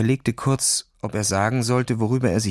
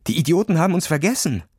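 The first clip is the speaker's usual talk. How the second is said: quick furious outburst, higher; angry rant; 6 semitones higher, faster than usual. Acted. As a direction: spit it out in panic. Panicked boy rants.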